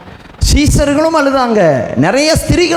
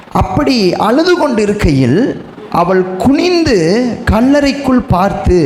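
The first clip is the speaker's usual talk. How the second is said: slow, raised pulpit reading; scripture reading. Acted. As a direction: proclaim the verse, stretching the key words. Reads scripture aloud to congregation.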